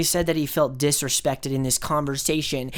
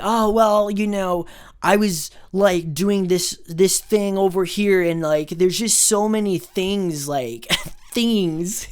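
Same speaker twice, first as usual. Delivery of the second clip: mocking a fumbling kid, slow and higher; whiny kid voice; 3 semitones higher, slower than usual. Vlogger mimics a lying guy, slow and higher. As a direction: drag it out like a kid caught lying. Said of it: "something a little kid says".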